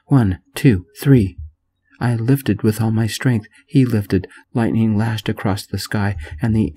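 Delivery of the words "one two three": building to a loud three; shouted countdown. Acted. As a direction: count up to the big lift. Counting down a heavy lift.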